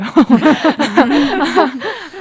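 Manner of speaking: loud burst of laughter; hearty laugh. Real, not acted. Laughs after answer.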